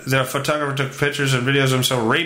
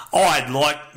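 put-on botched British accent. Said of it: "nah, it's Australian".

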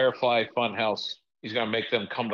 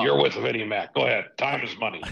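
lightly voiced impatient boss; a hint of a pushy tycoon; Vince McMahon impression. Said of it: "Mister McMahon".

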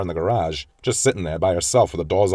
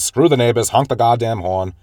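louder, a touch higher, exasperated mock snap; fed up; 4 semitones higher, 5 dB louder than usual. Mother in the car telling her son to honk, irritated. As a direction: push him to honk, annoyed.

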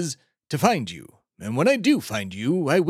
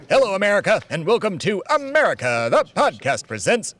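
show announcer; 6 semitones higher than usual. Acted. Introduces the show in announcer style.

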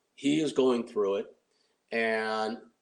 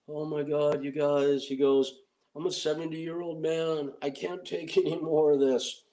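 higher, mock tearful old man; imitating sobbing; 5 semitones higher than usual. Pat Morita pleading to the producers at night, mock tearful, higher. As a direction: imitate a seventy-year-old breaking down, lightly. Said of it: "Pat Morita starts breaking down and sobbing".

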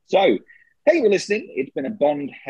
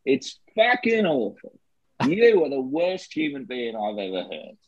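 put-on Australian accent. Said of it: "George Lazenby here".

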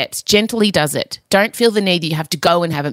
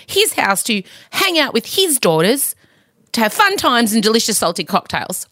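mock wounded; 4 semitones higher than usual.

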